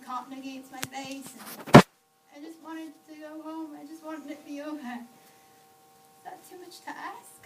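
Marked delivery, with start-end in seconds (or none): 2.4-7.4 plaintive plea. Acted. Hurt child wanting to go home.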